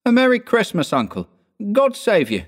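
high, bright-spirited nephew calling a hearty greeting; cheerful cry. A narrator's reading. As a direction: call out cheerily, pitched high. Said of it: "cried a cheerful voice".

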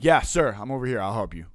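food truck owner waving over an approaching customer, calling out. Retold or imitated. Owner to angry customer storming up, calling out.

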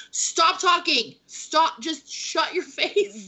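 slow, mock-stern shushing, a hint of British boyfriend; mock annoyed boyfriend. British boyfriend hushing chatty American girlfriend, mock stern. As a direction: tell her to stop talking, slow and half-laughing.

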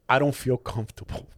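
low, soft, measured with pauses; hushed, deliberate clinical gravity; grave doctor imitation. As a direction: imitate a doctor breaking serious news. Doctor gives grave advice.

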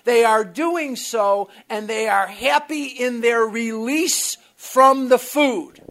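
loud insistent mock yell; retold yelling. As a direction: keep hammering it at him. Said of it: "he was yelling at me".

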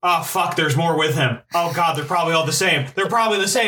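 lightly voiced grumbling ghost; a hint of an annoyed ghost. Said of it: "That was a really good voice".

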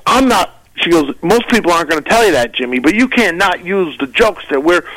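slightly high, fast scolding; mock lecturing friend. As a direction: rush the lecture at him. Friend voiced in a retold argument.

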